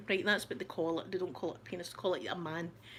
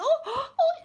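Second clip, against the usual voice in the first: high, loud shocked cries; flustered, high-pitched mock horror; shocked gasps; 6 dB louder than usual. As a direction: gasp out in hammed-up shock. Acting out a shocked flashed woman.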